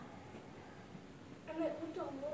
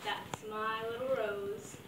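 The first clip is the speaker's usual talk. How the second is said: gruff voice; 4 semitones lower, much slower than usual. Retold or imitated. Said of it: "in your gruff voice".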